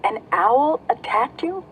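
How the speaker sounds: anxious mother bat forcing through the crowd; urgent and alarmed. A narrator's reading.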